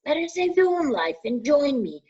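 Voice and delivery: high, hissing dark lord voice; menacing evil lord, high and cold; Voldemort's voice. A narrator's reading. Voldemort tempting Harry to hand over the stone, high and cold.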